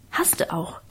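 tonloses Flüstern, leiser als zuvor; whisper. A narrator's reading. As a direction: heimlich ins Nebenzimmer hauchen. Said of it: "flüsterte ich im Nebenzimmer dazu". (trotzig geflüstert)

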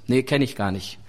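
low-pitched casual brush-off; mock-casual disowning; offhand denial. Imagined churchgoer denies knowing Jesus.

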